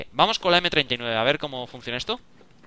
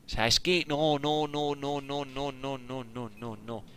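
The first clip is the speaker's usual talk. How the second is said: no, no trailing from normal to much softer; repeated no fading into defeat; fading denial; 8 dB quieter, much slower than usual. Real, not acted. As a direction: let the denials die away. Despair after dying.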